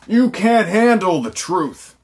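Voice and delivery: high, slow, loud impression; movie quote outburst. Reviewer quoting A Few Good Men, high drawn-out shout. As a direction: bellow the famous line, stretching it out. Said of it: "A Few Good Men".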